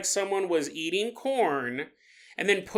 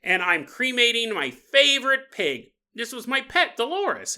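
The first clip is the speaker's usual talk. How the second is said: higher, a hammed-up indignant old lady; 5 semitones higher than usual. Old lady scolding the would-be buyer, mock indignant. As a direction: play the offended old woman guarding her pig. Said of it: "And she goes".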